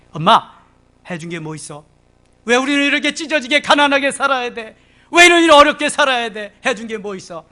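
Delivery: put-on a resentful kid nagging mom; whining complaint. Preacher voicing an ungrateful child griping at mother, whiny.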